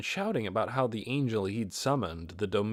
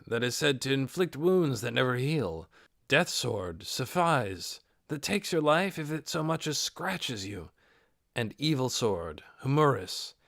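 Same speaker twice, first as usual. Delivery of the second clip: earnest lore recitation; listing the swords like a scholar; lightly voiced recital. Ninya earnestly listing the four swords to Nabe.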